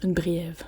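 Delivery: "brève" with an extra i-glide, "briève"; "brève" wrongly said with an i before the vowel; mispronounced BRÈVE. Shown as a demonstration. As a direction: test out "brève" as bri-ève. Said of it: "ça se dit pas du tout".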